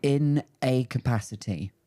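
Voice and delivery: slow, drawn-out hedge; oddly measured. Real, not acted. Answering whether she's doing the Fringe, oddly slow and measured. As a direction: stretch it out oddly, word by word. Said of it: "I don't know why I said it like that".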